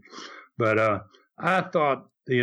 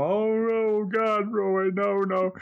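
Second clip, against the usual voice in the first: high, imitated whimpering plea; mock sniveling plea; 7 semitones higher, slower than usual. Mickey begging Roy not to hurt him, mock sniveling. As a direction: play a grown man sniveling and begging. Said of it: "sniveling and crying".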